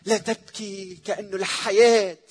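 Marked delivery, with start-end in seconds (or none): 0.0-1.0 soft tender voice. Retold or imitated. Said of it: "ولما سمعت".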